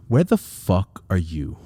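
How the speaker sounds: slow, deliberate angry demand; mad dad. Retold or imitated. Dad on the phone to runaway son, mad and deliberate. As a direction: imitate a furious father, word by word. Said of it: "I could tell he was mad".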